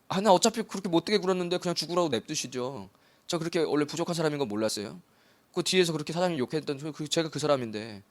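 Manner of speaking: a hint of a sheepish worker; lightly voiced, self-pitying apology; guilty employee. Employee confesses to his boss, lightly voiced and sheepish.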